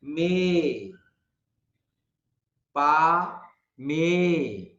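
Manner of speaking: मे and पा each said apart as a clear vowel model; isolated teacher vowel demo; sound demonstration. Shown as a demonstration. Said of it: "वो sound निकलेगा जो sound मे word बोलने से".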